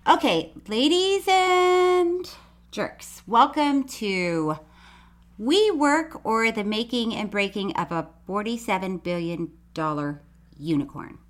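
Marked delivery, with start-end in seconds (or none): 0.7-6.2 mock announcer. Mock show intro.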